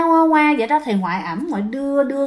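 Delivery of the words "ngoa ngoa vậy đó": put-on baby cry. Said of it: "Mẹ khóc ngoa".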